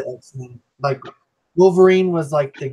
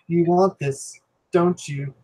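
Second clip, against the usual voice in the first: lightly voiced sly Palpatine tease; a hint of Emperor Palpatine; tempting devilish whisper; slower than usual. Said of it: "I quote Emperor Palpatine every day".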